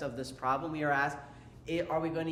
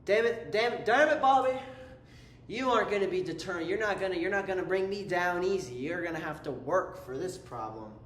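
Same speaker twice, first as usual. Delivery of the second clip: mock frustrated series. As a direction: ham up a grumpy series scolding Bobby. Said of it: "This series looks at you and says".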